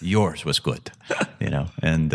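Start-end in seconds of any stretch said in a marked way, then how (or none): 0.0-0.9 attempted light Spanish accent. Spanish golfer brushing off praise of his eagle, light Spanish accent. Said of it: "that was my best Spanish accent".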